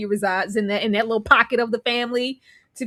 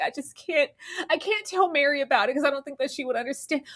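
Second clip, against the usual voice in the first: fake concern; 4 semitones higher, 3 dB quieter, faster than usual. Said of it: "She had to act concerned".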